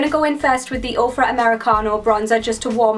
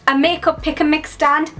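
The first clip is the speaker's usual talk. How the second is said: higher-pitched, emphatic mock disbelief; excited echo, pitched up; amazed repeat; 4 semitones higher than usual. Real, not acted. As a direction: repeat it as if nobody would believe it.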